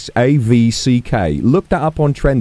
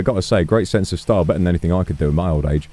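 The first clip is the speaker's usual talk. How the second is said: put-on a flustered, modest old police chief; lightly voiced shy old man; bashful old chief; 8 semitones lower, 3 dB quieter, faster than usual.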